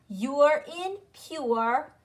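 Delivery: "You're in pure" drawn out slowly, sound by sound; sound drill. Shown as a demonstration. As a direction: say YOO-ER as in PURE for learners to repeat. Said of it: "That's what U R E sounds like".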